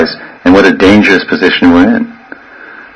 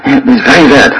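higher-pitched, lightly acted maternal alarm; alarmed mother; 4 semitones higher than usual. Mother hearing her baby cry, mock alarm. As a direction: fret like a mother whose baby is in trouble. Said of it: "and then she's".

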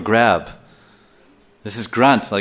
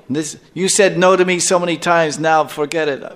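higher-pitched scolding comeback; mock angry retort; 4 semitones higher than usual. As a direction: play the fed-up wife refusing him. Acted reply of furious wife.

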